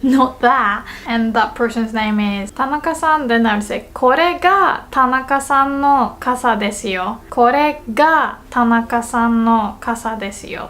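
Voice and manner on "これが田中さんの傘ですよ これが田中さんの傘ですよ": これが emphasized, the rest following evenly; teacher's model stressing これが. Shown as a demonstration. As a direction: put the weight on これが. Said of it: "put emphasis on the word this".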